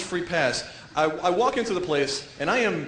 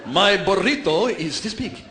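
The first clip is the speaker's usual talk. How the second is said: Latino porn star; 4 dB louder, slower than usual. Acted. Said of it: "sounds like a Latino porn star".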